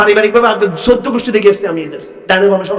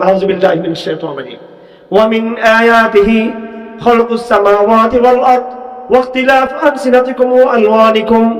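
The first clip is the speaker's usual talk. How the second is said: Quran recitation. Acted. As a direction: intone the verse like a reciter. Recites Quran verse in sermon.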